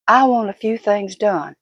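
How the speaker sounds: normal talking voice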